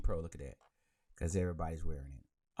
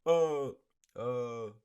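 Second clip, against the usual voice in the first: abandoned attempt at a comedian's voice, pitched up; Mike Epps; 4 semitones higher, much slower than usual. Host trying to find a comedian's accent, half-hearted impression. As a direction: feel around for an impression and give up. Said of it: "I ain't got a Mike Epps".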